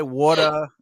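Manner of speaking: "water" with the final R dropped; non-rhotic ending on "water". Shown as a demonstration. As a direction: say "water" as "watah". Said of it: "I try to avoid E R words".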